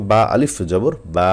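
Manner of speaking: final বা held long; stretched madd. Shown as a demonstration. Teacher shows students the alif case, long-held বা. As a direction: draw out the aa of the last বা. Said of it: "আপনি যদি টানটা না দেন".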